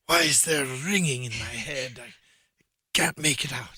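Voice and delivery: lightly voiced puzzled detective; mock bewildered Sherlock. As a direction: wonder aloud, in character, at the ringing. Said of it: "I'd be like".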